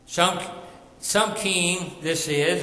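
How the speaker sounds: slow mock scoff, rising on some; light scoffing onlooker. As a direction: sneer at the humble king. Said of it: "some scoffed at Jesus' parade".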